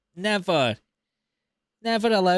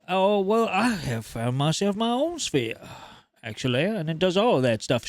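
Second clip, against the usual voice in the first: put-on southern accent; 2 semitones higher than usual. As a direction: play a smug Southern collector in a southern accent. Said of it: "I gave him a southern accent".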